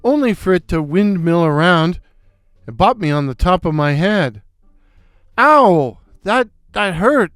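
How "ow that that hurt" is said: pained cry. Acted. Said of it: "I cried".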